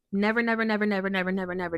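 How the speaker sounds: never said over and over, building then fading; emphatic repetition. Real, not acted. Complaining that the boss never offered a break, emphatic. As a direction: hammer "never" again and again. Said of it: "emphatic repetition".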